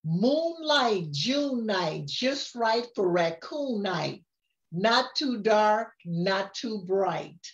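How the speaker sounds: sing-song storybook reading; rhyming lines read aloud to a grandchild; reading to a child. A narrator's reading. Grandma reads the picture book to her grandchild, sing-song.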